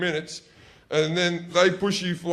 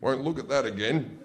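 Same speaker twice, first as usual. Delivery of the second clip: fading, hasty flustered dad; dad trailing off into embarrassment. Retold or imitated. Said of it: "And he goes".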